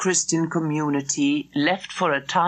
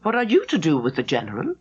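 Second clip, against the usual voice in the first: sharp; faster than usual. Acted. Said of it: "Gladys looked at him sharply".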